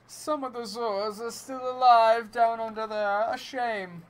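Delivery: lightly voiced mournful clown; a hint of a sad clown. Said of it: "clown voice".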